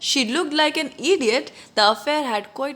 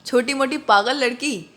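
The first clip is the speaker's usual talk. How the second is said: affectionate teasing. Retold or imitated. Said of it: "इस तरीके से बोलते हैं ना प्यार से".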